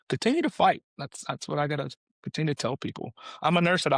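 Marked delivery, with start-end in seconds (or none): 0.1-0.8 rallying cry. Real, not acted. Urging cancer patients on.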